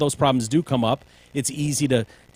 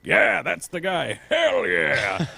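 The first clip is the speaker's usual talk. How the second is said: mock Hispanic voter; 4 semitones higher, much slower than usual. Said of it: "and were like".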